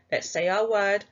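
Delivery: normal talking voice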